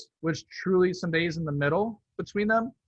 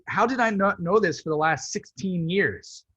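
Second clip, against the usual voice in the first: higher-pitched mild disbelief; retold astonishment; 4 semitones higher than usual. Man learning his sister-in-law's politics after years, mild astonishment. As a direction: replay your own baffled surprise.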